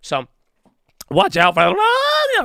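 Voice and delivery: voice breaking and cracking, very high pitch. A trader discussing markets with viewers: voice cracking. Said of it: "That was a big voice crack".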